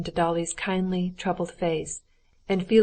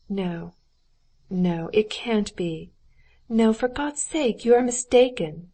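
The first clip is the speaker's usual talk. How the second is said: distressed protest; 3 semitones higher than usual. Acted. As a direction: cry out against it, for God's sake. Dolly refuses to believe Anna sinned.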